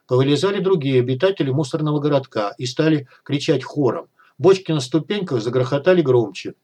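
usual speaking voice

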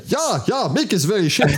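high English with a German accent, imitating the team boss; mock the boss telling Chin his driver is bad; Gunther Steiner impression. Host imitating Gunther Steiner in high accented English. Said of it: "Si, il est comme ça".

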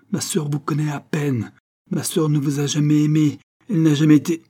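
high, increasingly loud denial; building outrage in her sister's defence; indignant protest. Acted.

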